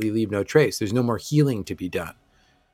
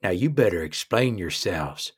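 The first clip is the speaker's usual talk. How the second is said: angry dwarf boss; 2 semitones lower than usual. Acted. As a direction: warn the strangers like an angry roadhouse boss. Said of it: "She says".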